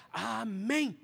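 AMÉM proclaimed, drawn out on the first vowel; solemn amen. Shown as a demonstration. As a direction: pronounce "amém" deliberately and fully. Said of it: "eu quero pronunciar uma expressão". (amém solene e enfático)

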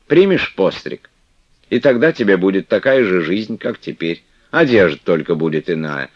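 выше и громче, уговаривая; матушка ласково убеждает; ласковая игуменья. Acted. Манефа уговаривает Флёнушку. (Манефа уговаривает Флёнушку остаться, ласково)

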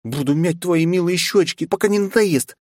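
put-on high, cooing girlish purr; very high playful cooing. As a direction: coo it like a cat purring. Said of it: "замурлыкала Кристина".

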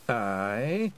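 a touch of nervous quaver; small frightened yes. Acted. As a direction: pixie chief agreeing in fear. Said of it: "Rob Anybody quavered".

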